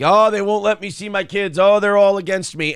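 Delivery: loud, high self-pitying whine; whiny victim. Retold or imitated. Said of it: "guy like".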